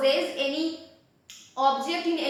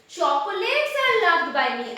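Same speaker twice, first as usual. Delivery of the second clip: "Chocolates" raised and pushed at the front; "Chocolates" leads, stressed above the rest; 4 semitones higher, 3 dB louder than usual. Shown as a demonstration. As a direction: put the emphasis on "Chocolates". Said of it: "The emphasis is on chocolates".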